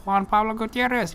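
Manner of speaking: high, mock cop calling out names; imitated cop's high-pitched roll call. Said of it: "going through the roll call".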